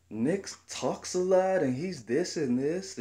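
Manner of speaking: high, lightly put-on chatty voice; imitated coworker. Coworker comparing him to Nick, imitated high voice.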